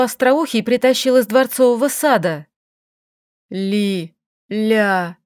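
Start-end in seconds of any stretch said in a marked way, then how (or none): 3.5-5.2 half-choked hoarse call; choked wheeze. A narrator's reading. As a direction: squeeze the name out through a throttled throat. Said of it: "задушенно хрипел эльф".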